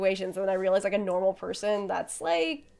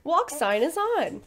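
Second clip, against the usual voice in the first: slow, higher automated announcement; crosswalk robot voice; 6 semitones higher, much slower than usual. Retold or imitated. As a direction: drag it out like a traffic signal speaker.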